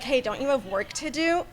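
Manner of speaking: faint and distant, said with the mic set down; away from the mic. Shown as a demonstration. Quoting a player before picking the mic back up, distant off-mic. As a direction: speak off-mic, far from the microphone. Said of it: "Oh, sorry, I put the mic down".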